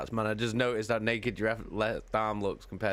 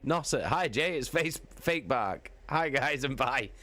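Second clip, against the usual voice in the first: goblin-like voice; 7 semitones higher than usual. Pretend. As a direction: squeak out a mock goblin greeting. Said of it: "woken up by a goblin? No, it's him".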